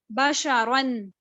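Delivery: بشرن read slowly, the را heavy and full; slow Quranic reading. Shown as a demonstration. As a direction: draw out بشرن syllable by syllable, heavy را. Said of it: "بشرن میں جو را تھا وہ پور تھا". (بشرن آہستہ، را پُر)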